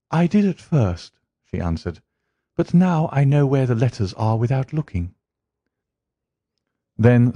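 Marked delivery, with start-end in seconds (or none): 0.1-5.1 put-on lightly raised, eager young woman's voice; a hint of a flustered typist; Mary answering the detective, a touch higher; young woman client. Mary Sutherland answers Holmes.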